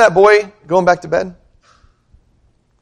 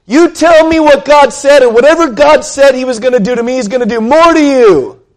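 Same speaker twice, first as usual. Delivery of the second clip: threatening; 8 semitones higher, 4 dB louder than usual. Pretend. Old Eli threatening young Samuel, loud and menacing. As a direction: lean in and threaten the boy. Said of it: "So Eli threatens him".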